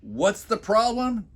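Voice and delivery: high, slow indignant blare; mock wife blaring in disbelief. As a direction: throw her words back at him loudly. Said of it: "Stacy blares out".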